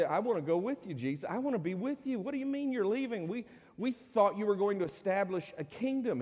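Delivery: high, rising, anxious pleading; pleading disciples. Retold or imitated. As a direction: beg him like worried followers not to go. Disciples pleading not to leave.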